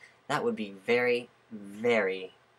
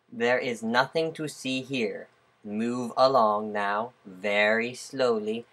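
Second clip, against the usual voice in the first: drawn-out, deliberate words; slow mock command; 4 dB louder, slower than usual. Speaker telling onlookers to move along, slow mock command. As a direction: stretch every word as a measured order.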